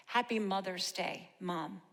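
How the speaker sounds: tender dedication. Real, not acted. Poem closes addressing mother directly.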